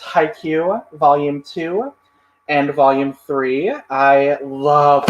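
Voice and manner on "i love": sputtering mid-word, mouth full of drink; spraying a sip while talking; spit take. Real, not acted.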